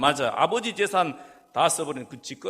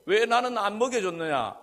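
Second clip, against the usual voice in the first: higher-pitched protest voicing the aggrieved brother; indignant complaint; 4 semitones higher than usual. Elder brother protests to father over not being fed, indignant. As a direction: complain as the overlooked elder son.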